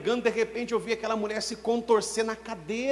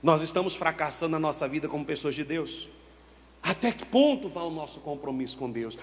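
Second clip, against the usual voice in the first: normal talking voice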